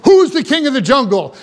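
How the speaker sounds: imitated challenge from a boastful lion; mildly hammed-up animal yell; mock lion yell. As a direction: call it out like a storyteller's lion. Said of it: "and yelled".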